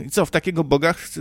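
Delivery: normal talking voice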